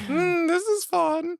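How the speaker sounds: very high, slow fake Michigan mom; bad Michigan mother accent. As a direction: coo in a botched Michigan accent. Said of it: "Michigan mother sound like a southern".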